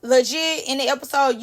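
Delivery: usual speaking voice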